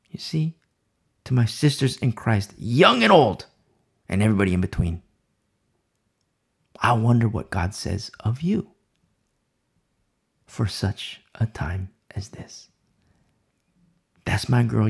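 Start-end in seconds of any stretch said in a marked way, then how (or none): 0.1-0.6 hushed little whisper; whispered aside. Real, not acted. Preacher whispering to the listeners. 10.5-12.7 breathy hushed whisper, slow. Real, not acted. Preacher whispering the phrase to each listener.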